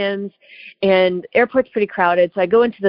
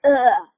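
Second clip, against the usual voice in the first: disgusted "ugh", pitched up; creeped-out groan; 5 semitones higher than usual. Retold or imitated. Traveler recalling being tracked on cameras, creeped-out groan. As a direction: recoil with a groan.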